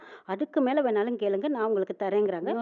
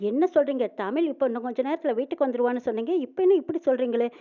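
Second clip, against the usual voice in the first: stunned, raised protest from the mother; shocked outburst; 3 semitones higher, 5 dB louder than usual. Retold or imitated. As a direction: burst out in shock at the news. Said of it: "அதிர்ச்சி அடைறாங்க".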